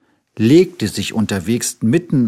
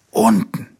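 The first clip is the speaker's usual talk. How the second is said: whispered last word; hushed final word. A narrator's reading. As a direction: let the list fade to a whisper. Tiger ends his list.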